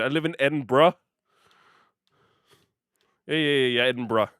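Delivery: Edinburgh said ED-en-pra like the meme; bra meme. Shown as a demonstration. Streamer joking in the meme's voice, Edinburgh ending in bra. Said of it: "I'm using the bra meme".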